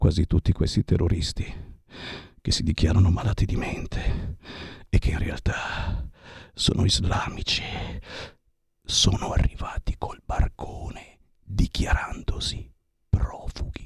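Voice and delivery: low quiet voice. A radio host tells listeners to come close to the radio, speaking in a low voice. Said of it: "lo dico a bassa voce".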